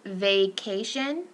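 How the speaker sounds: vacation drawn out slowly; slow demo word. Shown as a demonstration. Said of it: "So it's that A sound".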